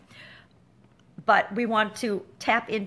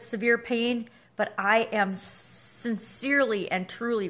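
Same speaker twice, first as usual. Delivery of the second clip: sincere apology. Shown as a demonstration. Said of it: "I will say in my head".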